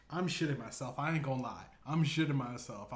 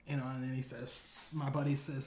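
ordinary talk, nothing marked

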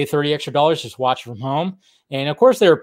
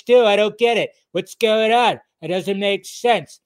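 Trump impression; 5 semitones higher than usual. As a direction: ham it up like a blustering Trump. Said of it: "Breaking out the Trump impression".

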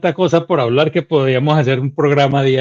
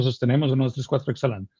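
softer, fading breathing count; softly guided count; 2 semitones lower, 8 dB quieter, much faster than usual. Shown as a demonstration. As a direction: count them through the exhale gently. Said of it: "Yo simplemente cada vez que empiezo el uno".

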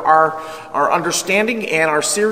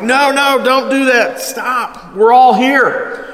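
higher, louder pleading call; urgent plea; 6 semitones higher, 4 dB louder, slower than usual. Retold or imitated. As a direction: stop him before he acts. Prisoners stopping the jailer.

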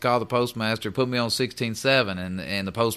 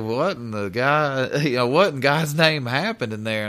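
laughing; 3 semitones higher, 4 dB louder than usual. Retold or imitated. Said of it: "He just busted out laughing".

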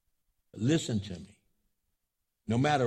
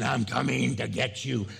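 mock threat, each word punched; menacing threat. Preacher shows what Jesus does not mean, menacing. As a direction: warn them they are about to be caught. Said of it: "not in a way of saying".

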